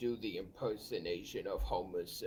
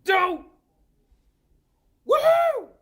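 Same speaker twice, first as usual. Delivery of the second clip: high, loud cartoon yell; Homer Simpson; 16 dB louder, slower than usual. Guy on a clip shouting as Homer Simpson. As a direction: whoop it like Homer. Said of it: "impersonation of Homer Simpson".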